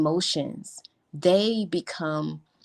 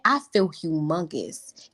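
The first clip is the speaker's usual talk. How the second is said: stretched humongous. Shown as a demonstration. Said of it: "Can we get".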